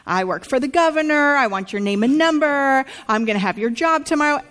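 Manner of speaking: a touch of a self-important passenger raising her voice; mock entitled shout. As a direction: play her pulling rank, lightly. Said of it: "this woman who's shouting".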